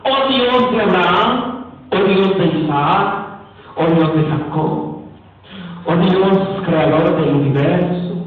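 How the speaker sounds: slow, low litany, drawing out each title; mock solemn prayer. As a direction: parody a long-winded prayer, item after item. Parodia de una oración interminable. (oración solemne en tono de parodia)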